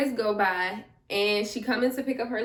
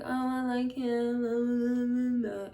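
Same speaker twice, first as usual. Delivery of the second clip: gushing friend; 2 semitones higher than usual. Retold or imitated. Retells smitten friend on phone.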